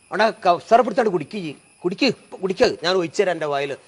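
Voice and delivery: father urging the sick mother to drink, urgent and loud. Retold or imitated.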